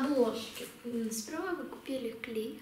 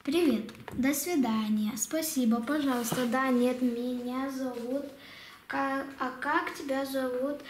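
reading aloud. Shown as a demonstration. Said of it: "Давай почитаем".

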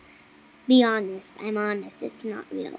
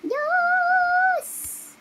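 excited high squeals; 10 semitones higher, much slower than usual. Pretend. Sliding in game.

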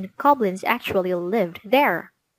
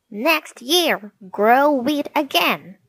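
shouted; 5 semitones higher, slower than usual. Acted. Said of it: "he shouted".

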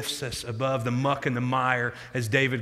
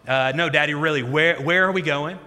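mildly insistent, imitated worried kid; a touch of anxious urgency on "where"; nervous child; 3 dB louder than usual. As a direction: press for an answer with stammered unease. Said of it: "she starts to get nervous".

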